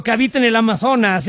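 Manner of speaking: mock announcer; dramatic announcer. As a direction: announce the legend with mock gravity. Reads a dramatic video title.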